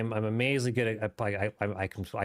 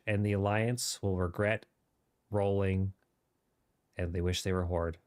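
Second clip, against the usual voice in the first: light British RP gaming voice; modern british accent. Pretend. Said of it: "there's my mini R P voice".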